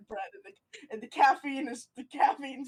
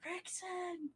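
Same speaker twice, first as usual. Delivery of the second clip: whisper yelling; 6 semitones higher, 7 dB quieter than usual. Acted. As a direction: yell it in a whisper. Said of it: "his whisper yelling".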